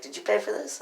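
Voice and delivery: high-pitched challenge; retold pointed question. Retold confrontation over payment.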